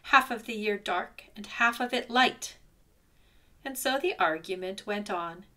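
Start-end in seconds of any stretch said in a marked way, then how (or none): 0.0-2.6 a louder bear growl, firm. Acted. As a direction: growl it down in his face. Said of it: "he growled".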